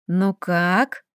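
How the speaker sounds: soft, low purr. A narrator's reading. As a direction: purr it like a pleased cat. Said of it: "мурлыкнула Лилька". (мурлыкая, тихо)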